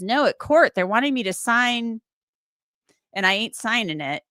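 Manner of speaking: a light take on a defiant son; Billy impersonation. Retold or imitated. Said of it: "that's my Billy impersonation".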